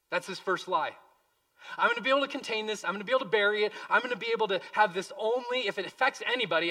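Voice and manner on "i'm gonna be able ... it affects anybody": Achan's boastful self-talk. Retold or imitated. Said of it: "he probably believes in his heart".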